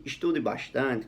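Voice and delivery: slow, calm, unforced tone; calm advice. Shown as a demonstration. Teacher advising a student of his, calm and slow. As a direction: advise gently, taking your time. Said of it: "com esse tom de voz calmo".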